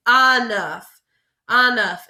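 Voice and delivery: enough said "uh-NUF" with a French accent, like un œuf. Shown as a demonstration. Teacher showing how un œuf sounds like enough. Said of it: "say enough, but with a little accent".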